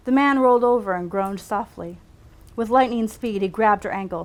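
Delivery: measured read-aloud storytelling; story narration. A narrator's reading. Writer reads her own medical story aloud, measured narration. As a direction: read it out like a novel excerpt.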